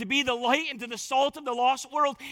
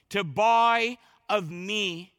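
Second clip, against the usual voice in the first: "to buy of me", slow, weight on "me"; emphatic pronoun; 2 semitones lower, much slower than usual. Retold or imitated. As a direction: draw out "buy of me", leaning on "me". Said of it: "They're specific and they're emphatic".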